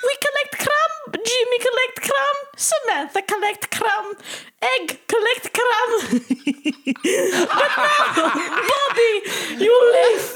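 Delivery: official ant voice. Pretend. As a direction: lecture Bobby like an ant elder. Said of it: "We always say".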